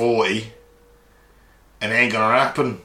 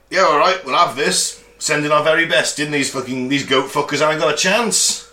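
cocky gung-ho boast, pitched up; mock bravado; 3 semitones higher than usual. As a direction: play the overconfident cheerleader for war. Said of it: "and you're like".

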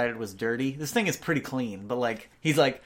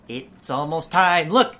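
put-on excited old man; 3 semitones higher, 8 dB louder, slower than usual.

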